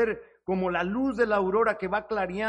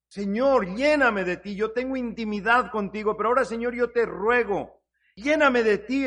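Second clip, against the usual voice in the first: raised-voice plea to God; earnest prayer; 3 semitones higher, 3 dB louder than usual. Acted. Preacher modelling a plea to be filled, earnest prayer. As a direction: pray it out, building to a louder plea. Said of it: "Tenemos que orar y decirle".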